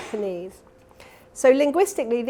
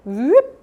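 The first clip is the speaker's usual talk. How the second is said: gentle whoop; 3 semitones higher, 9 dB louder than usual. Shown as a demonstration. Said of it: "a much more gentle".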